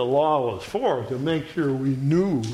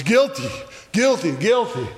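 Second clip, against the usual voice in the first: accusing voice; 6 semitones higher than usual. Acted. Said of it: "this other voice".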